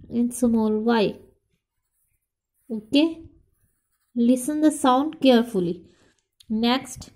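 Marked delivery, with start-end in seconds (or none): 4.2-5.7 slow, careful instruction. Shown as a demonstration. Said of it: "teacher repeats instruction".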